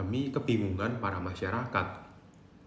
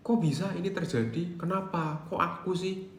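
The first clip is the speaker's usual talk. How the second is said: mock angry outburst; 8 semitones higher than usual. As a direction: play the grieving person lashing out at fate. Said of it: "Udah mulai marah".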